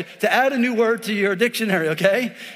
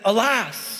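mock cuss. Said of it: "instead of cussing, he said".

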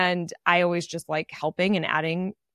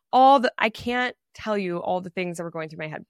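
ordinary delivery

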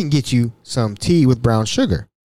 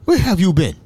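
higher, mildly panicked African man; mock panic; 4 semitones higher than usual. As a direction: play at panicking, in an African accent. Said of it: "he's panicked".

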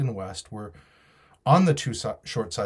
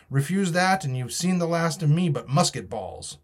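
raised-pitch pirate ultimatum; threatening pirate; 6 semitones higher than usual. Acted. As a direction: lay down the threat as a sea rogue. Silver threatens the captain.

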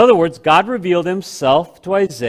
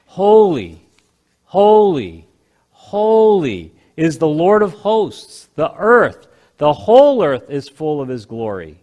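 seraphim crying out. Acted. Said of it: "They were crying out to each other".

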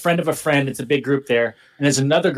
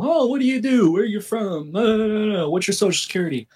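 breezy mock small talk, pitched up at the start; casual small talk; 5 semitones higher than usual. Chatting with a new girl at the beach, casual small talk. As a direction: imitate idle getting-to-know-you chatter. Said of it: "it's just casual".

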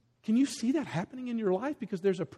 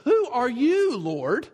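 high, loud, bewildered "who are you"; high and loud, dazed and asking; startled question; 5 semitones higher, 5 dB louder, slower than usual. Acted. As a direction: call up in shock from the ground. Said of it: "Like what the text says".

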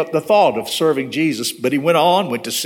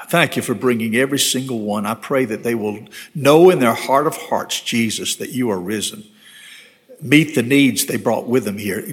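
earnest pastoral prayer, mostly lower-pitched; sincere prayer addressed to God; closing prayer; 3 semitones lower than usual. Real, not acted. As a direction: pray aloud, building to a plea then settling.

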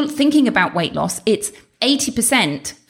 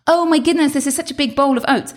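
mock amazement; 5 semitones higher than usual. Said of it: "And he said".

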